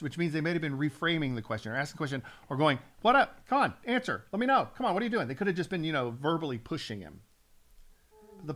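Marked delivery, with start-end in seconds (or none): 3.0-5.3 loud, high, pushy heckle; heckling taunt. Acted. Crowd goading Jesus to answer, loud taunting. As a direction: badger him to answer, loudly.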